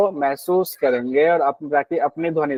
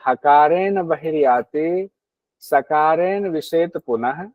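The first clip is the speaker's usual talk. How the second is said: reciting Sanskrit verse. Shown as a demonstration. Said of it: "क्या कहते हैं घेरन ऋषि".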